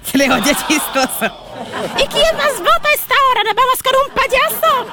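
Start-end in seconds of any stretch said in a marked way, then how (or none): 2.0-4.9 silly clown. Acted. Host keeps clown voice.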